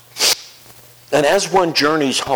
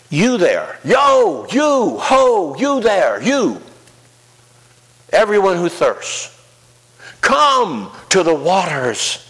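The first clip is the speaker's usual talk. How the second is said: a loud, high street-cry shout; calling out; 8 semitones higher, 3 dB louder, slower than usual. Acted. Isaiah's voice calling to the thirsty crowd, loud calling out. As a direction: hail them like a market crier.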